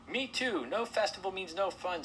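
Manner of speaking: very high little shrew voice; protesting shrew. Acted. Shrew agreeing to leave the festival, high protest.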